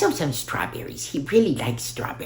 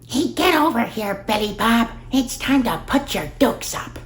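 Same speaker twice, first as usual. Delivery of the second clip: raised, higher call to a fight; angry tree calls Billy Bob out; calling out a challenge; 7 semitones higher than usual. Acted. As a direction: shout him over to brawl.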